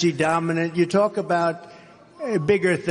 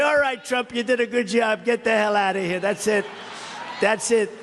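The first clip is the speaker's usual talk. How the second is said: imitating supporters; 3 semitones higher than usual. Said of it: "I know my people. You'll say".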